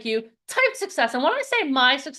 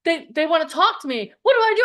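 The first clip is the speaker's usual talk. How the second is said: retold panic; 4 dB louder than usual. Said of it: "She's like".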